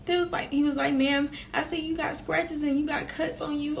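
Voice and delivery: high, hushed, on the verge of tears; real tearful. Real, not acted. Survivor recalling officers asking if he hurt her, tearful. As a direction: hold back crying as you tell it. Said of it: "Why am I crying".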